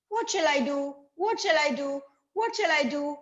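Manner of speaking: a touch of worry; lightly voiced fretting bee; puzzled bee. Izo wondering what to do, mildly worried. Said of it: "said Izo".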